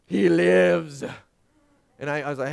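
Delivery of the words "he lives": loud, hammed-up astonishment; mock amazement. Girls see their sick dad come down, mock amazement. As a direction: imitate awestruck girls, loudly. Daughters greet sick dad's appearance.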